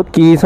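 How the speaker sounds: mimicked "keees" squeak of brakes; imitated brake squeal. Rider showing the mechanic the brake noise, imitated squeak. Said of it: "అట్లా వస్తుంది అది sound".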